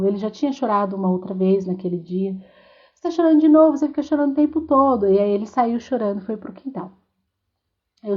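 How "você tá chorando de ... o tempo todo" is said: impatient father. Retold or imitated. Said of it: "o pai dele já ficou impaciente".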